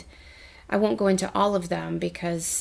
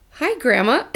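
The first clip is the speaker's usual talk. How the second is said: happy greeting; 6 semitones higher, 6 dB louder than usual. Retold or imitated. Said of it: "And I was like".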